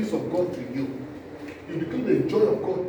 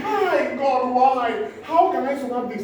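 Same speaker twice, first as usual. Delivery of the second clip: mock panicked cry; 5 semitones higher than usual. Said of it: "You start screaming".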